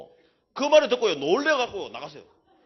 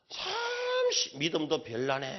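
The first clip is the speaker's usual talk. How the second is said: mock scornful jab; 2 semitones lower, much slower than usual. Retold woman cursing at the church, mock sneer. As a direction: mimic her sneering insult, slow. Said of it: "하면서 막 욕을 하는 거 있죠".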